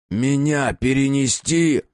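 slow, high, stunned question; startled question. Acted. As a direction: ask it in disbelief.

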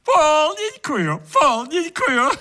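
gleeful guest calling for a full pour; cheerful shout. Acted. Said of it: "весело закричал гость".

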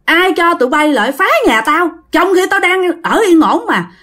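put-on rising pitch, angry old man building up; an old ghost scolds intruders, getting angrier; mock ghost scolding. Old ghost berates soldiers for wrecking his home, building anger. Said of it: "Ổng mới chửi".

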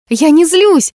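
high, loud "злюсь" shouted in protest; loud denial. Acted. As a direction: fling out "Я не злюсь" loudly, stressing "злюсь". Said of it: "воскликнула Неверфелл".

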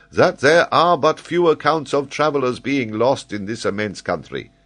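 an excitable scholar holding forth; high, animated geographer explaining; Paganel, eager learned Frenchman. Acted.

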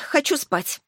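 sighing, tired and sleepy; weary sigh. Acted. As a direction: sigh it out, done for the night. (со вздохом, устало)

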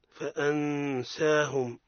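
فأنساهم with ن hidden before س, ghunna held; slowly nasalise the nun in فأنساهم; ikhfa example. Shown as a demonstration. Teacher giving the seen example, slow ghunna. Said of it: "مثال للسين".

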